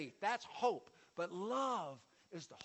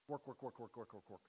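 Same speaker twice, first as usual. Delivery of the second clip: softer, fading chant of words; weary repetition; 8 semitones lower, 10 dB quieter than usual. Shown as a demonstration. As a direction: trail off, tired of the endless list. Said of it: "listing endless striving".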